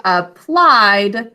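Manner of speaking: "applied" stretched on PLIED; stress on second syllable. Shown as a demonstration. Teacher contrasting a related word, second syllable stressed in "applied". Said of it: "now an unstressed syllable".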